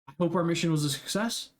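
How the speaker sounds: high, eager host voice asking questions; big host welcoming the party back, high and eager; Duggar greeting. Acted. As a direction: greet warmly, then press for news. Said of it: "he claps his hands loud and he goes".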